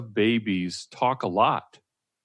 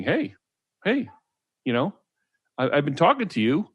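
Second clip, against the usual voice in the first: lightly voiced baby's protest, pitched up; voicing a crying baby; 5 semitones higher, 4 dB louder than usual. Baby's essence complaining to inattentive parent, mock-insistent. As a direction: speak up for an unheard baby, emphatic and insistent. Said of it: "that's the essence saying".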